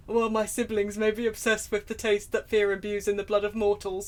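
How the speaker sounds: lightly voiced emo vampire; a hint of brooding vampire; Trevor. Player reluctantly reading as Trevor, lightly voiced impression. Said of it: "Sound like Trevor?".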